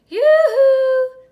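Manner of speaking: high, loud calling yoo-hoo; loud, high sing-song call across the field; shout. A narrator's reading. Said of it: "she shouted".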